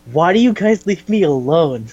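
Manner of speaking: imitating a left-out friend's complaint; mock whining protest. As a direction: plead indignantly, dragging the words a little.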